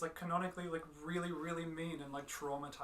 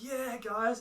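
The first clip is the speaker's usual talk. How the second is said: mock cheer; 7 semitones higher, 8 dB louder than usual. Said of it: "They were going, like".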